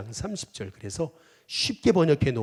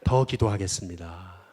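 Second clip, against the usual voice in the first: slow call to repeat; 3 semitones lower, 4 dB louder, slower than usual. Shown as a demonstration. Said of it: "한번 따라해 보겠습니다".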